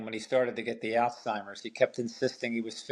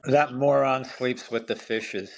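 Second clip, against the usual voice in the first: laughing; slower than usual. Real, not acted. Mock mobster line, laughing.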